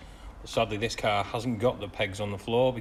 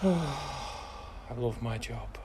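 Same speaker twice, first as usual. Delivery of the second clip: slow, deadpan sarcasm; sarcastic; 2 semitones higher, much slower than usual. Real, not acted. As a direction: drag it out, bitterly ironic. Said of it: "I'm being really sarcastic".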